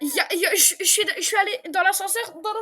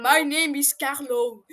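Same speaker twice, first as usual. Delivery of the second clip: robot voice; 2 semitones lower, 4 dB louder, much slower than usual. Retold or imitated. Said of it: "J'ai entendu le ... truc robotique".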